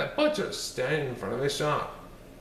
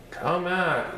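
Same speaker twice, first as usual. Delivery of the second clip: yelled; 5 semitones higher than usual. Acted. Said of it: "yelled the muddy old sow".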